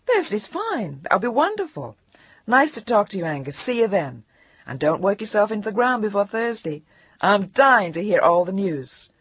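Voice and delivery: high, gushing, insincere; fake enthusiasm. Jillian faking delight to her editor. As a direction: pile on the false delight. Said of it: "Which was a lie, but that's the local dialect".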